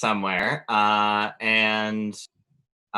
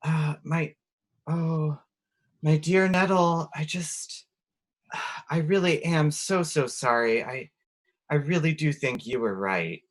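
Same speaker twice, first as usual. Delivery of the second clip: disguised as Naoko; 5 semitones higher than usual. Acted. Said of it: "walk up and say".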